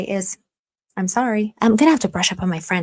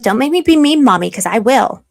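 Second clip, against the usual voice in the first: mock warning; 3 semitones higher, 6 dB louder than usual. Streamer warns chat not to make her mean, mock scolding. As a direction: warn them in an exaggerated mom tone.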